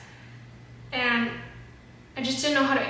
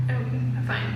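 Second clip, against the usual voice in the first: holding back tears; 12 semitones lower, 5 dB louder, slower than usual. Real, not acted. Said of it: "I'm gonna try not to cry".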